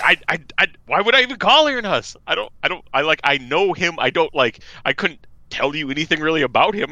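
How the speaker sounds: lightly voiced puzzled friend; flustered girlfriend. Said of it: "she was like".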